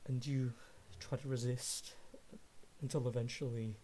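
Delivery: measured descriptive scene narration; game master narration. Acted. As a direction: paint the fight for the players, steady and vivid.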